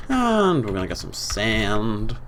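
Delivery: drawn-out American vowel in sand; American accent. Pretend. Creator showing off the park, slipping into an American accent. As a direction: slip into an American accent on one word. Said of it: "Don't know why I'm American".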